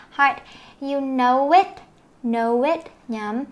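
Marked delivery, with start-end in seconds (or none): 0.8-2.8 "know it" joined, lifting at the end; linked words. Shown as a demonstration. Teacher modelling linking in "know it", demonstrative. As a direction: glide from "know" straight into "it". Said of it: "nối này".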